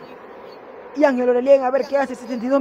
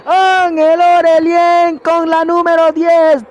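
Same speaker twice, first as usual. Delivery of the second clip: high, loud, stretched goal call; goal commentary; 5 semitones higher, 6 dB louder, much slower than usual. Real, not acted. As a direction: scream the goal, dragging it out. Goal scored, commentator erupts.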